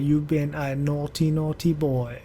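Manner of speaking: lightly attempted, badly faked British accent; terrible British accent. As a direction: put on an unconvincing British accent. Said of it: "that was a terrible British accent".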